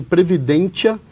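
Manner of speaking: Latin word said with an Italian accent. Shown as a demonstration. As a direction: roll it out like an Italian. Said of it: "usei um sotaque italiano aqui". (sotaque italiano macarrônico)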